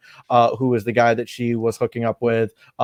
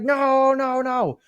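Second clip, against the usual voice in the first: mock panicked girl; 12 semitones higher, much slower than usual. She freaks out.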